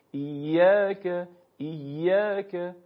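very slow "ایاک", stretched and struck on "yaa"; stress on long alif. Shown as a demonstration. Teacher demonstrating correct stress in "ایاک", beat on long alif. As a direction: lean hard on "yaa" in "ایاک", then a light "ka". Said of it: "ضربهٔ خودم رو روی الف مدی ایاک بزنم".

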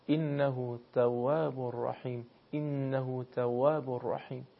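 slow recitation, تواب with a tight t that does not spread; Arabic ta. Shown as a demonstration. Teacher reciting to show Arabic ta, slow and precise. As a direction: hold the t of تواب compact, no spreading. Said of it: "تا رو تلفظ بکنید دیگه حرف پخش نمیشه".

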